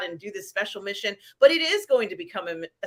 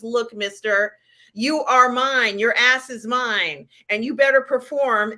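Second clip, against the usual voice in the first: stern prison boss. Retold or imitated. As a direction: lay down the law, half-hearted. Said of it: "I'm not saying it the way he would say it".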